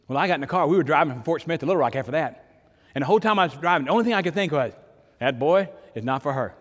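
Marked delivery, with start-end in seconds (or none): 5.2-6.6 laughing repeat. Retold or imitated. Repeating brother's words laughing.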